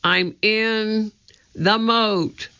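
gasping for air; breathless from the water. A narrator's reading. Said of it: "gasping for air".

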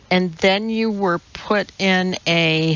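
hesitant, left unfinished on "a"; tentative, tailing away on "a"; trailing off. A narrator's reading. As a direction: let the sentence hang after "a". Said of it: "her voice trailed off".

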